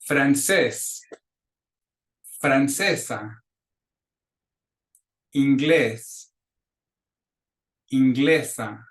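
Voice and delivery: slow, deliberate model pronunciation; teacher modeling Spanish words; repeat-after-me drill. Shown as a demonstration. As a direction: say each word clearly for a class to echo. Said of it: "clases repitan".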